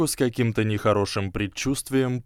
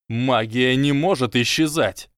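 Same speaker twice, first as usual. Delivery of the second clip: voice breaking; 3 semitones higher, 4 dB louder than usual. Acted. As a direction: voice cracking with despair. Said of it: "Его голос срывался". (срывающийся голос)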